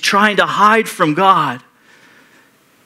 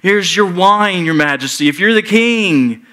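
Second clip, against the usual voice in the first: raised, sneering mock homage; mocking soldiers; 5 semitones higher than usual. Soldiers taunting the dying king, a hammed-up sneer. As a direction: taunt him like a jeering soldier. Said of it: "They're like".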